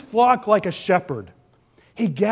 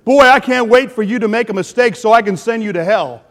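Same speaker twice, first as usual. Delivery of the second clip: mocking Big Brother God; 6 dB louder than usual. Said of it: "God is like Big Brother watching you".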